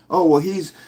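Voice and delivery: lightly voiced mocking ex in court; mild mocking impression of an ex-partner in family court; mock baby mama. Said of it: "just like a crazy baby mama in court".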